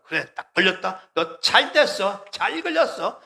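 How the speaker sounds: slow, taunting sneer rising at the end; gloating devil. Pretend. Preacher voicing the devil gloating over a trapped believer, taunting. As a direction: gloat like a devil who caught his prey.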